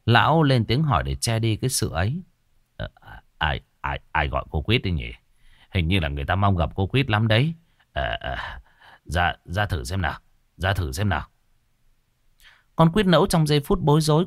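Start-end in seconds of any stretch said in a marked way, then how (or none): 2.8-11.3 embarrassed. Acted. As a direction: stammer it out, flustered and shy. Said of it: "Lão ngượng ngùng".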